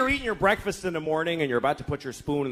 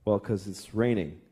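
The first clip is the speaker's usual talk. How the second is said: patient father; 8 semitones lower, 4 dB quieter, slower than usual. Acted. Father patiently answering daughter.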